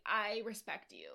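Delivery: lightly imitated lost voice; a hint of a voice that's gone; Tinsley. Making peace with a castmate, mimicked lost voice. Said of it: "her voice is still gone".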